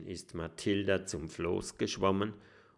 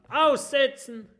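pirate shout; 6 dB louder than usual. Acted. Pirates demanding captain be cast off.

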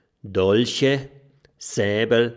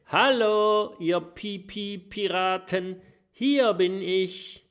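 teasing dragon; 9 semitones higher, 4 dB louder than usual. A narrator's reading. Dragon taunts the pirates.

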